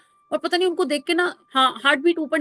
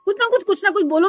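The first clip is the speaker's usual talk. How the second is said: louder, higher scolding retort; old vendor scolding the speaker, loud and bitter; harsh retort; 3 semitones higher, 4 dB louder than usual. Retold or imitated. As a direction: snap back at the fussy buyer. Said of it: "पलटकर उल्टा बोल रहे थे".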